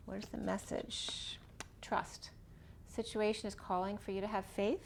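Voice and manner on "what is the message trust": slow hushed whisper. Real, not acted. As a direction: whisper the question to the cards, slowly. Whispering question to the cards.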